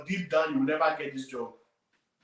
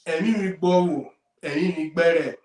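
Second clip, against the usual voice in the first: louder full native name; 6 dB louder than usual. Shown as a demonstration. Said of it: "But when I say".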